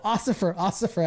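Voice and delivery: light crybaby impression; mocking friend. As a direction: tease him in a crybaby voice. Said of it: "I make fun of him".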